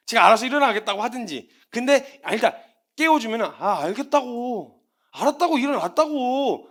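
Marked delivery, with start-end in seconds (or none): 3.4-6.7 slow, irritated "I get it"; grumbling brush-off. Retold or imitated. Son under the covers brushing off his parent. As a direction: brush off the nagging, slowly. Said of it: "계속 말만".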